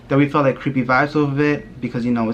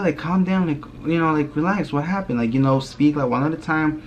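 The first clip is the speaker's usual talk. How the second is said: higher-pitched motherly urging; imitated calming mom; 5 semitones higher than usual. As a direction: play mom settling the kids. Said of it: "And then she's like".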